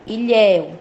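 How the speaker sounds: "ilhéu" with open éu at the end; demonstrated open ending on "ilhéu"; open diphthong. Shown as a demonstration. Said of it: "ditongo aberto também eu".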